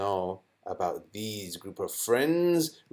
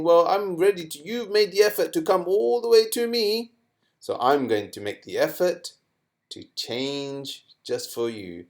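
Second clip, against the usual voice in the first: mildly higher, lightly voiced friendly letter; voicing the noon sakina; 6 semitones higher than usual. Teacher voicing the noon sakina agreeing to change. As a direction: speak as the helpful noon. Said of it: "so it's saying".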